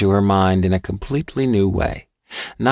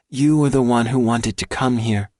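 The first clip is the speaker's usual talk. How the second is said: put-on higher, earnest little-girl scolding; a girl trying to sound grown-up and stern; serious child voice; 4 semitones higher than usual. A narrator's reading. Girl scolding the scared boy, serious child voice. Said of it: "in her most serious child voice".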